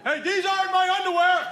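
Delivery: put-on high-pitched outraged teenage son; imitating a son's indignant yell. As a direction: holler a protest from the other room. Son's protest from other room.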